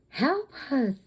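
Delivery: high mock yell for help; the little boy calling out, a mild mock scream; retold scream. Boy begging the guy for help, mild mock scream. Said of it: "he screams at him".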